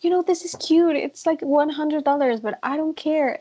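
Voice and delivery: lightly voiced drunk guest; breezy, careless tipsy tone; tipsy shopper voice. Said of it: "super drunk and they're like".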